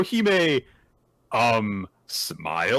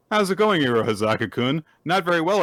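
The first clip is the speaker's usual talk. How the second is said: taunting Toshusai; 4 semitones higher, 4 dB louder, faster than usual. Retold or imitated.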